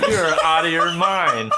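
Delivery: hammy TV dad scolding; sitcom dad voice. Acted. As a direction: deliver it like a goofy sitcom father. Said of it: "I said it like a sitcom dad".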